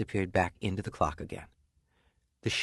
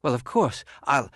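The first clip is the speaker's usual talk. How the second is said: agreeable shoemaker; 5 semitones higher, 4 dB louder than usual. Acted. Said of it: "said the shoemaker".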